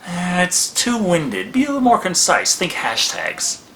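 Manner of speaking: slow, bossy agent. Acted. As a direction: coach the pitch like a pushy agent. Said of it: "What are you, my agent?".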